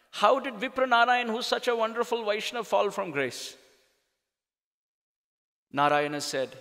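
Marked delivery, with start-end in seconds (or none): 0.1-3.6 lamenting Lakshmi. Acted. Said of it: "Lakshmi started to weep".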